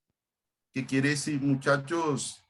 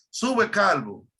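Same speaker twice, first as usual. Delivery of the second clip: mildly mocking call, pitched higher; quoted jeer, raised a little; mocking taunt; 5 semitones higher, 4 dB louder, slower than usual. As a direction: imitate the jeering youths, lifting the pitch. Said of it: "Se burlaban de él y le decían".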